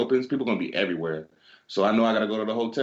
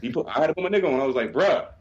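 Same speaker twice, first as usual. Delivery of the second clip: raised, higher voice, fed up with the guest; exasperated retort; 8 semitones higher than usual. Retold or imitated. Hotel clerk fires back at a rude guest, exasperated and raised. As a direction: snap back at the cussing guest. Retelling yelling at angry guest.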